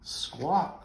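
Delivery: a cheeky bird's squawk; crow squawk. Acted. Crow squawking with a grin at the soaked buffalo. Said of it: "said the crow with a grin".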